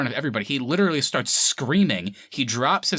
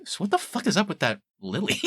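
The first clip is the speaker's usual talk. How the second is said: laughing disbelief; 7 semitones higher than usual. Real, not acted. Laughing incredulous question.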